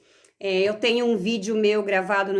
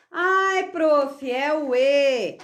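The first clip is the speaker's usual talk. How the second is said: criança respondendo; 4 semitones higher, much slower than usual. Retold or imitated. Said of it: "criança respondendo".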